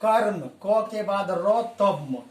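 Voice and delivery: slow, sounded-out spelling of कर्म; slow demo. Shown as a demonstration. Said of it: "बोल के देखिए".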